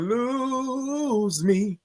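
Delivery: slow laughing reassurance. Real, not acted. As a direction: laugh it off while promising to stay. Laughs over tech trouble.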